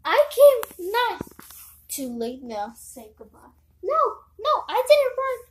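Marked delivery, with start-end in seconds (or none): 1.9-3.4 gloating villain. Acted. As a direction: savour the victim's doom. Villain gloats over the victim.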